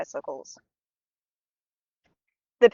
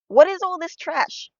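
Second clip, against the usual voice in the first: narrated indignant yell, high and slow; 8 semitones higher, 4 dB louder, slower than usual. A narrator's reading. Winter child finding rocks in the treasure chest, yelling. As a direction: raise the pitch and draw out the outrage, a storybook yell. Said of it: "he yelled".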